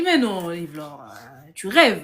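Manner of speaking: mock him in a thin little voice; a light take on the man's small voice. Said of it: "avec sa petite voix".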